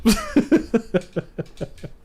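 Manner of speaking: high-pitched burst of laughter; high giggle. Real, not acted. Streamer cracking up at his own dramatic line. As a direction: laugh at your own silliness.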